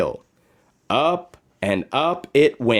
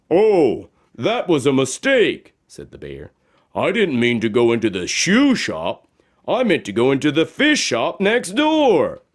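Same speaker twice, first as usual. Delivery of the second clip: bear explaining. Acted. Bear telling Josephine about her old shoes. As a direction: explain it kindly.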